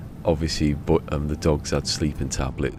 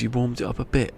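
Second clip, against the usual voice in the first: higher-pitched disbelieving question; incredulous echo; 8 semitones higher than usual. Retold or imitated. Vet questioning the dog's owners, incredulous. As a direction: repeat it back in mock disbelief.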